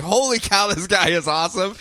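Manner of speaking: high, breathless awe at the hero; starstruck gasp. Retold or imitated. Date gushing over the hero, high and starstruck. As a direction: gush like a dazzled date. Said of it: "was just like".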